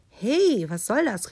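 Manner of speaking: high, loud sheep protest; indignant call. A narrator's reading. Sheep protests as wolf plumps into the straw, calling out. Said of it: "rief Schaf".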